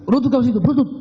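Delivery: high-pitched, soft mock order; retold insistent command. Retelling repeated order to kneel. (menirukan perintah mendesak, nada tinggi tapi pelan)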